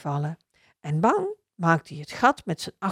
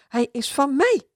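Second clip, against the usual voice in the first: put-on young dachshund; 7 semitones higher, 3 dB louder than usual. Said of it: "blaft een jonge tekkel".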